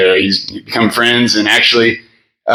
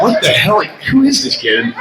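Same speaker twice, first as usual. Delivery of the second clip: high, laughing what-the-hell; half-laughing, baffled by the kid; amused mock outrage, pitched up; laughing disbelief; 10 semitones higher than usual. Retelling confused amused reaction.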